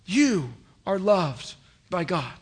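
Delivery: slow, earnest assurance; sincere. Real, not acted. Pastor assuring congregation they are loved, slow and sincere. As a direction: lay it gently on each listener. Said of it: "I want you to hear those words".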